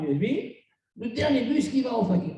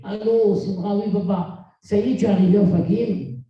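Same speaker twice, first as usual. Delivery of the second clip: worried phone call; 3 semitones lower, 6 dB louder than usual. Retold or imitated. Father phones worried daughter at night.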